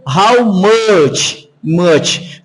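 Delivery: "How much" with a closed A-like vowel in "much". Shown as a demonstration. Teacher shows his key technique, closed vowel. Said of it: "com o som mais fechado".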